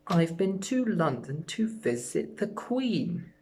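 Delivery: slow, playful pussycat answer; lightly voiced pussycat. Shown as a demonstration. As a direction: answer as a cat would. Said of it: "by being a pussycat".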